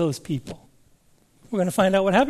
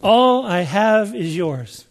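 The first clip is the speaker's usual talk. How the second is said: "All I have is yours" slow, "All" stressed; slow, steady emphasis; slower than usual. Shown as a demonstration. Preacher repeating the promise slowly to the congregation. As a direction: say each word slowly and firmly. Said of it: "Key on that word".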